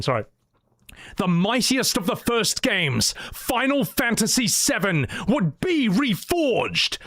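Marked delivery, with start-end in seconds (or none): 1.2-7.0 epic fantasy narrator. Shown as a demonstration. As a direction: stretch out reforged majestically. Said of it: "Let me do that line again".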